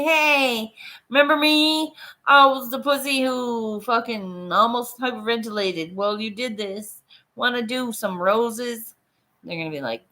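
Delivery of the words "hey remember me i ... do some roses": strut back in bragging about it; cocky mock greeting. Back at the tattoo shop, bragging to the artist, high and cocky.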